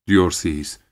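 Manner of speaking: ordinary delivery, nothing marked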